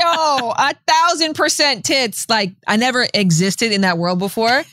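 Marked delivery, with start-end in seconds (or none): 0.0-2.2 joyful cry. Real, not acted. Gushing about pregnancy breasts.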